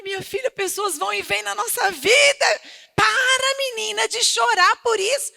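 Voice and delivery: brisk motherly telling-off; scolding mother. Retold or imitated. Mother scolds crying daughter. (mãe dando bronca, mais alta e mais forte)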